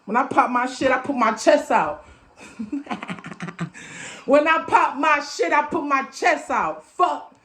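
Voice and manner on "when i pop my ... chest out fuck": pitched-up, hyped boast; amped up. Real, not acted. Boasting to listeners about speaking boldly, amped up. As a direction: brag with real charged-up energy. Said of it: "I'm so amped".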